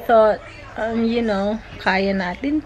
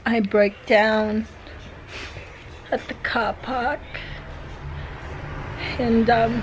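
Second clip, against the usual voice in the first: after crying; 3 dB quieter than usual. Real, not acted. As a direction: close to tears, fighting to keep it together. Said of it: "sorry, I'm still teary-eyed".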